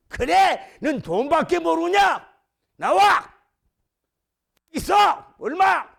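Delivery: high, loud, short demands; bold confrontation. Acted. Debtor about to pay off the creditor, defiant shouting. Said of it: "이러던 사람이 막 당당하게".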